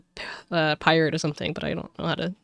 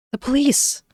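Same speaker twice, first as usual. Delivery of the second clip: higher-pitched burst of realisation; startled exclamation; 9 semitones higher, 6 dB louder, slower than usual. Acted. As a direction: exclaim as the police approach. Reacting to arriving police.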